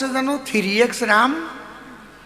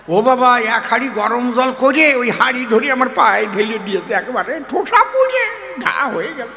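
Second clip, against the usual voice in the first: loud complaint; 4 semitones higher, 4 dB louder than usual. Acted. Complaining of the scalding.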